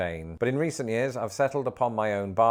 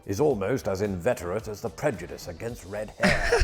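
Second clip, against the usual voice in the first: quoted reading. A narrator's reading. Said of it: "Wilkie Collins wrote".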